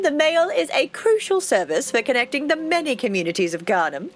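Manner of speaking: a hint of a self-important mayor, sweetly welcoming; lightly voiced proud mayor. Mayor greeting the new postmaster, lightly pompous. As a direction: play the smug small-town mayor, lightly.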